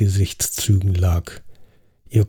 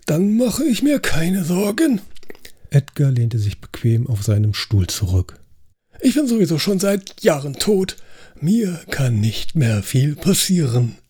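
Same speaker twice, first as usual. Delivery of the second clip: relaxed dead Edgar; 6 semitones higher than usual. Acted. Ghost Edgar to the table, carefree and amused. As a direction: lean back and shrug off death.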